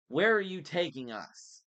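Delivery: put-on high, loud demand from a boy; alarmed demand. A narrator's reading. Frightened boy questions kidnapper.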